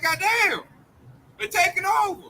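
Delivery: voicing a scared onlooker, not shouted; imitated alarm. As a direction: mimic someone alarmed at a takeover. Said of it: "he's scared".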